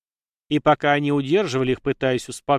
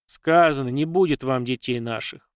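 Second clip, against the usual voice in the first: ordinary delivery, nothing marked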